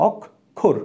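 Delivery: "অক্ষর" slowly, as ok-khor; split-syllable pronunciation. Shown as a demonstration. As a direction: break "অক্ষর" into k and kh sounds. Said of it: "ক আর খ".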